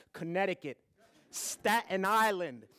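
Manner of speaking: slow, drawn-out mock wonder; mock exotic. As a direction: savour the name like a far-off land. Naming far exotic places.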